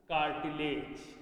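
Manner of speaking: "cartilage" stretched very slowly and low; slow dictation. Shown as a demonstration. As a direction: drag out "cartilage". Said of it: "dictating notes".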